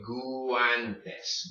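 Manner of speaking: guantes as goo-AHN-tes; uncombined U and A. Shown as a demonstration. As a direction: stretch the U before the A in guantes. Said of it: "You don't combine these".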